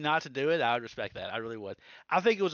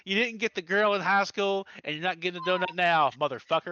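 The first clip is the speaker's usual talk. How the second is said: mock rant; 4 dB louder than usual. Mock rant about donut cowardice.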